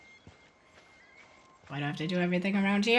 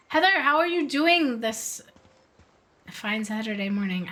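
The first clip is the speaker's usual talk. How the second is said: put-on greeting voice; 5 dB louder than usual. Streamer greeting Heather in chat with a mock-formal voice. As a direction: greet her like a game show host. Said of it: "I don't know why I'm talking like that".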